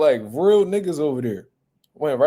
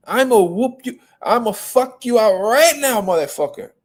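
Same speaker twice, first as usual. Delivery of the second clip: imitated threat; 6 semitones higher, 4 dB louder than usual. Canelo threatening Andre, retold.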